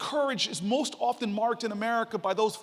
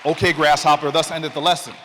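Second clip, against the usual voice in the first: louder, hammed-up kung fu master line; mock sage; 5 semitones lower, 11 dB louder than usual. Student left alone on the street, mock wise master. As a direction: announce it like a wise old master, mocking himself. Wry self-mocking thought on street.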